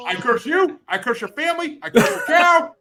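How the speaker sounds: high, loud mock curse; laying a curse. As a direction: hex them like a hammy witch. Jokingly curses the other voter.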